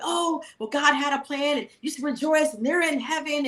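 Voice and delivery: mock churchy comfort. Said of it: "they would tell me".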